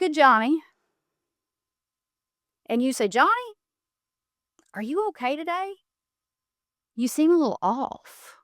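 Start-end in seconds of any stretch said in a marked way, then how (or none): 3.1-8.4 calm. Shown as a demonstration. Speaker models a comeback to an insulting cousin, calm. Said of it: "You say it calmly".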